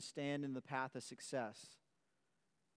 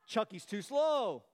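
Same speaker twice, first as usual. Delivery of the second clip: retold taunt; 6 semitones higher, 6 dB louder than usual. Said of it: "had been telling him".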